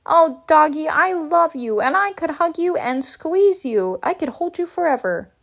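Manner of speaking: lovey-dovey gush; gushing affection. Acted. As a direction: smother the doggy with adoring baby talk. Gushing love at the dog.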